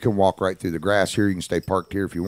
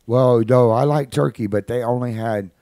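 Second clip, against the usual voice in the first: put-on higher, louder little-boy voice; acted child, pitched up; little kid; 5 semitones higher, 5 dB louder than usual. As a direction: imitate a small boy earnestly explaining. Voices little kid explaining dinner.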